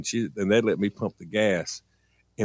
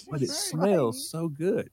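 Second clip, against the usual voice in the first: put-on kid's voice; 7 semitones higher, slower than usual. Kid pleads with mom.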